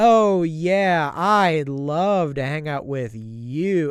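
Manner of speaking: put-on heavy sarcasm, mocking, insincere yes. Describing the Jellyfishing episode, quoting Squidward turning down jellyfishing: sarcastic Squidward impression. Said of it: "he's all sarcastic about it".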